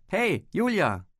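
hoher, gedehnter lauter Zuruf; Rufen. A narrator's reading. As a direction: den Namen langgezogen hinterherrufen. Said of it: "rief er". (laut und gedehnt rufend)

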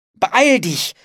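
high, loud cry to hurry; urgent call. A narrator's reading. Philipp urges Anne to run from the storm, calling out. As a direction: call out urgently, pitch jumping up. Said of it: "rief Philipp".

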